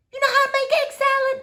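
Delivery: quick, high incredulous question; doubtful question. Acted. Gloria questioning the girl's cooking, quick and incredulous. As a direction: tease the girl's confidence.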